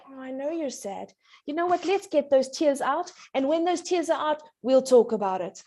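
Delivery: gentle comfort. Shown as a demonstration. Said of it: "we should say".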